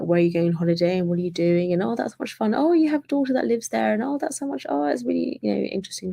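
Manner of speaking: enthusiastic small talk. Retold or imitated. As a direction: gush over their holiday plans. Chatty seat neighbour enjoying conversation.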